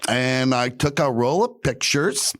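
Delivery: high, lightly voiced grandma; chirpy high old lady telling a story; sweet old lady. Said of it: "And she goes".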